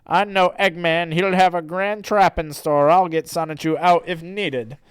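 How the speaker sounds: lightly voiced confident hero; Sonic. Sonic plans to rescue Sonichu, lightly voiced hero. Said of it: "And then Sonic says".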